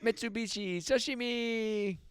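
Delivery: put-on Asian accent. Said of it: "that Asian impression".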